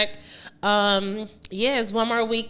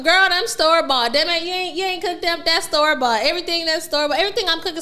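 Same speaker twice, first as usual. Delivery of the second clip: teasing friend voice; 7 semitones higher, faster than usual. Retold or imitated. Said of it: "Flip FaceTimes me talking shit".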